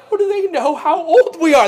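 high-pitched mock alarm; freaked out. Brothers seated by age wonder how, freaked out. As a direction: ask it in baffled panic. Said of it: "they're just freaked out".

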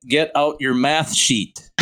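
"sheet" slowly with a long ee; slow, careful words, long vowel in "sheet"; clearly said "sheet". Retold or imitated. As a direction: enunciate "sheet" so it can't be misheard. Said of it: "I said sheet, like a sheet of paper".

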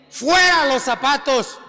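forceful preacher's call; exclaimed, driving command; emphatic command. Real, not acted. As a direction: call it out as an urgent order.

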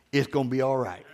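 low and soft, almost to himself; a quiet reassuring murmur; soft reassurance. Retold or imitated. Preacher comforting himself after a broken printer, low and soft.

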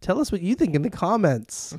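high, hammed-up YouTuber plea; social media influencer. Host asking listeners for comments, mock influencer voice. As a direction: parody an eager influencer sign-off. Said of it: "I'm becoming a social media influencer".

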